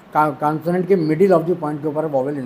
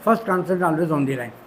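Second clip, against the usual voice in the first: slow dictation; much slower than usual. Shown as a demonstration. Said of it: "rule dictated slowly".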